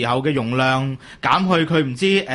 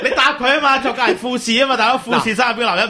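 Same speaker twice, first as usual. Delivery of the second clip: higher voice bubbling with laughter; laughing tease; 6 semitones higher than usual. Real, not acted. Co-host urging the guest to answer the joke, laughing. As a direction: egg him on while still laughing.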